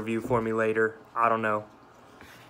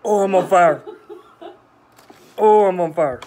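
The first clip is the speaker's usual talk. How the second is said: high, loud cry of real pain; loud burning-mouth outcry; 5 semitones higher, 7 dB louder than usual. Real, not acted. Pepper eater with mouth on fire, loud pained outcry.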